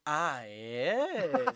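drawn-out mocking comeback. Coworker answers being called a mocker, mocking. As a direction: needle him with a long, sarcastic reply. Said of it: "Você é um cara muito debochado".

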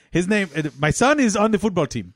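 proud Afghan father, hammed up; effusive Afghan-accented speech with swooping pitch. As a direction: boast in a put-on Afghan accent. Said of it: "Two families from Afghanistan".

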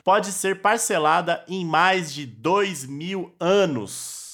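deliberate headline reading, last words drawn out; news headline read. Real, not acted. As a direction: announce the headline, stretching its ending. Reads a headline aloud.

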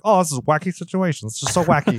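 mock sitcom voice. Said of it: "they're like".

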